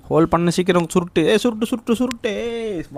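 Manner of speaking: high, excited rapid-fire repeats; urgent urging. Real, not acted. Urging friend to grab loot quickly. (அவசரமா, உயர்ந்த குரல்ல தூண்டுதல்)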